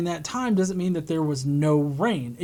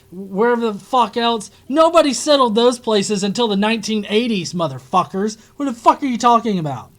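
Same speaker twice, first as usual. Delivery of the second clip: loud furious rant, yelling at the screen; angry shouting; 5 semitones higher, 7 dB louder than usual. Real, not acted. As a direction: shout it out in disbelief.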